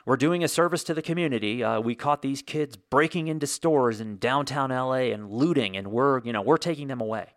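mock-official reassurance, slightly slowed; glib police spokesman. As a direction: play the PR officer brushing it off. Police spokesman excuses the arrests.

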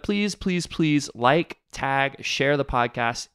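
slow, drawn-out begging; host begs listeners to share the podcast; pleading. Real, not acted. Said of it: "pleading listeners to share".

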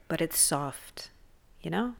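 mock-gentle whispered punchline. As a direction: drop to a conspiratorial whisper.

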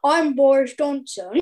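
a child's light hint of Boris Johnson; lightly voiced Boris introducing himself; little girl's gentle mock Boris, voice barely changed; Boris Johnson impression. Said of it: "can you do any impressions".

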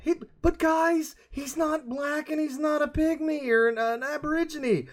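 high, slow Scottish-ish Shrek shout; Shrek accent. Retold or imitated. Mocking a casting boss, high and shouted Shrek voice. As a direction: boom it out like Shrek. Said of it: "I know that's a Shrek accent".

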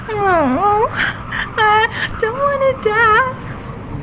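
slow, crying plea; girl begging the birds for help; tearful whimper. Acted. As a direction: sob it out slowly.

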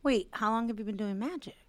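soft whispered question. Real, not acted. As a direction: whisper it like a secret.

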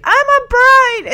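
high, slow, indignant; bride voice. Retold or imitated. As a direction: declare it loudly, outraged. Becky yelling at driver.

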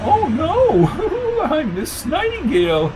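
high falsetto titter and correction; tittering, scatty woman character; giggling lady. Acted. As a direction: coo it in a fluttery falsetto. Flo giggles, correcting the priest.

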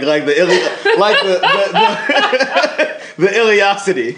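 laughing while talking. Real, not acted. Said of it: "I can't stop laughing".

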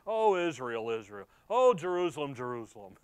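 loud "oh" sinking on each repeated name; grieved lament. Acted. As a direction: imitate a mild head-shaking lament, falling away. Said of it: "looks at them and he just shakes his head".

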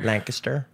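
Lancaster as LANK-uh-ster; local pronunciation. Shown as a demonstration. Echoing friend's try, Lancaster said LANK-uh-ster. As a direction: say Lancaster with a swallowed middle. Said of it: "supposed to be pronounced Lancaster".

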